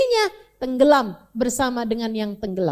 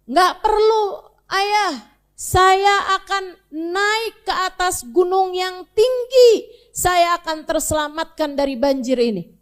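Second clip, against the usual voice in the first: defiant son; 4 semitones higher, 3 dB louder than usual. Acted. Son refuses his father from the shore, stubborn. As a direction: refuse your father, sure of yourself. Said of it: "Anaknya bilang".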